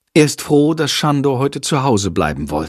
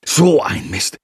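cursing; 4 semitones lower than usual. Acted. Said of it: "flucht Jendrik".

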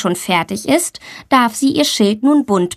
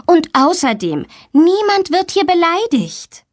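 rising high, firm teacher's rebuke; stern teacher; 8 semitones higher than usual. Acted. Teacher rebukes Tommy for insulting, firm and high. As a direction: put a stop to the insults. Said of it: "ermahnt ihn die Lehrerin".

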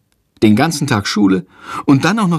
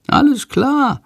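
hohe Vogelstimme; Sándor, der Vogel; 13 semitones higher, slower than usual. A narrator's reading. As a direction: piepse es munter. Sándor the bird answers. (hohe Vogelstimme, munter)

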